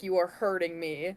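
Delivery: mock guilt-tripping tone. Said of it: "genuinely guilt trip them and be like".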